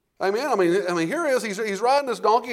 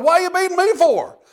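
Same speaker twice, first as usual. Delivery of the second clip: high, loud pleading donkey voice; the beaten donkey protests; talking donkey; 9 semitones higher, 5 dB louder than usual. Retold or imitated. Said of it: "the donkey turns and says".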